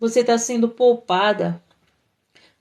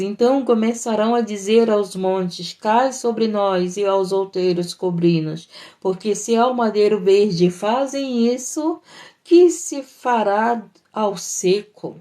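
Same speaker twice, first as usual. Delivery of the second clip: scripture reading. Acted. Preacher reads Jesus' warning to listeners, measured scripture reading.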